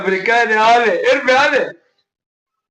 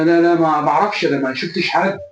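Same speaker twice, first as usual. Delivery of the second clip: stammering denial; 4 semitones lower than usual. Retold or imitated. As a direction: stutter nervously, repeating انا and ما. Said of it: "مالك اتلجلجت ليه كده". (يتلجلج وهو بينكر بتوتر)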